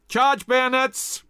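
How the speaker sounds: drawn-out, high shouted order; slow rallying battle cry; battle command. A narrator's reading. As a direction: bellow the charge at the troops. General orders bayonet charge.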